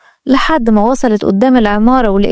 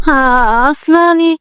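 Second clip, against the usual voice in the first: startled, higher-pitched stammer; 3 semitones higher, slower than usual. Acted. Girl hesitating at the man's door, startled. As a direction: answer as if caught off guard. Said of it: "اتخضت وقالت".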